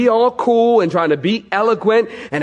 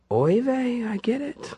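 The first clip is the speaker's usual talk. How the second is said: comic Yiddish exclamation; 6 semitones higher, 8 dB quieter than usual. Acted. Disciples' comic reaction.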